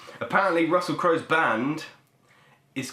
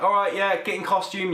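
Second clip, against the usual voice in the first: film crew; 6 semitones higher than usual. Retold or imitated. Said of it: "and they're like".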